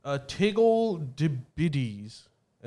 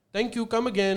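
Apu accent; 6 semitones higher than usual. Shown as a demonstration. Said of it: "instead of saying".

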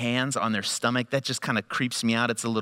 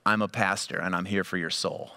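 spooky joke; 6 semitones lower, 4 dB quieter than usual. Pretend. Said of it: "No, I didn't say that".

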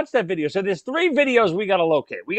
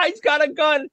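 imitated laughing scream; 9 semitones higher than usual. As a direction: mimic a giddy scream, pitched high. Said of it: "You start screaming, laughing".

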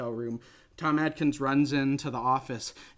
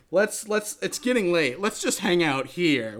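louder, higher suggestive come-on; flirty Tom Atkins; 4 semitones higher, 4 dB louder than usual. Retold or imitated. Host voicing Tom Atkins luring Ellie to stay, loud and suggestive.

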